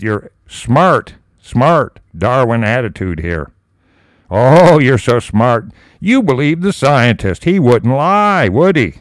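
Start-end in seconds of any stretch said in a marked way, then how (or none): 4.3-8.9 sarcastic mockery. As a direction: taunt the doubter with fake admiration. Mocks the atheist believing scientists.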